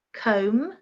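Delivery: comb, B left out, rising tune; comb with silent B. Shown as a demonstration. Teacher goes through the ten words, comb with silent B. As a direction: model comb without any B sound. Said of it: "silent B".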